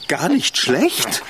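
slow, disbelieving echo of gar nicht schlecht; drawn-out mocking repeat. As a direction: repeat his words back, slowly and incredulous. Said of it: "dir fällt nichts weiter zu sagen ein".

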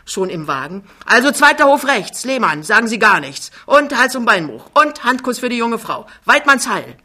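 laut und höher, in Eile; hastig aufbrechend. Acted. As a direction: ruf die Abschiedsworte im Gehen laut. Jachmann bricht hastig auf. (Jachmann verabschiedet sich laut und eilig)

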